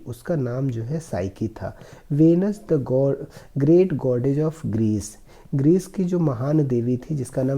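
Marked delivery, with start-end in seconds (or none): 2.1-5.2 slow, careful reading of the English passage; slow reading aloud. Shown as a demonstration. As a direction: read each word slowly for the class. Teacher reads story slowly. (धीमी आवाज़ में अंग्रेज़ी पढ़ना)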